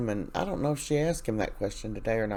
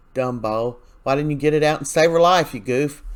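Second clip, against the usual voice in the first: louder, fast, fed-up jab at a character; exasperated scolding; 3 semitones higher, 5 dB louder than usual. Real, not acted. Recapper yelling at Xander on screen, exasperated scolding. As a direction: chew him out like he can hear you.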